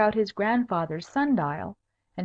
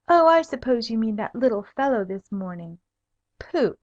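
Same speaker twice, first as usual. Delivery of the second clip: dismissive; 3 semitones higher, 5 dB louder than usual. Acted. Elaine dismissive.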